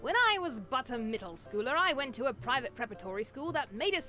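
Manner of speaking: a light British accent, barely put on; faintly British storyteller, said half in jest; a hint of British accent in a school memory. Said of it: "I don't know why I said that in a British accent".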